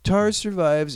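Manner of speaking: an excited reveal of the twist. Real, not acted. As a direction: build it up like big news. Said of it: "But get this".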